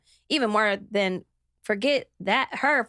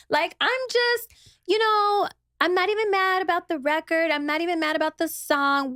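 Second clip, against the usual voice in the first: high put-on innocent tone; fake sweet voice; 6 semitones higher than usual. Mocking the rival's high, fake-calm apology. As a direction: imitate her high, fake calm excuse. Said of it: "all high pitched with her fake self".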